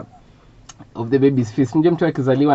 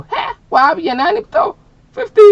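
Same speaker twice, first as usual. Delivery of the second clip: mother's shocked reaction; 7 dB louder than usual. Acted. Mother reacting to the price of a blouse, hammed-up shock. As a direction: play Mum hammed-up and aghast. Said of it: "my mother had the best reaction ever".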